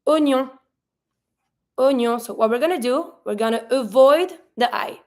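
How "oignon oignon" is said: "Oignon" said as o-nyon, no wa sound; French "Oignon", starting oh; French O, silent I. Shown as a demonstration. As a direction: open "Oignon" with a plain O, skipping the I. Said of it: "We're just gonna be pronouncing o".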